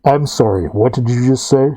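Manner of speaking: lightly voiced knight, calm and cool; casual menacing knight. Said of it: "He looks casually up at you and goes".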